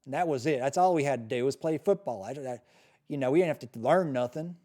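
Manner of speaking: hammed-up Southern parent griping about school; Southern accent. Parent objecting to nursery school teaching race theory, mock Southern accent. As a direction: put on a broad, indignant Southern accent. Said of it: "gonna do a Southern accent".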